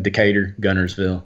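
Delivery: town names in an Alabama twang; Alabama accent. Shown as a demonstration. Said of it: "gets me back in my Alabama".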